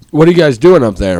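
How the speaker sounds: retold call to the kids upstairs; mock yell upstairs. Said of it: "he yells up to us".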